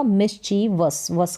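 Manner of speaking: "मिसचीवस" slowly in three parts, then "वस" alone; ending in VUS. Shown as a demonstration. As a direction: stretch "मिसचीवस" and show the short "वस" ending. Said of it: "वस करके". ("मिसचीवस" धीरे, अंत में वस)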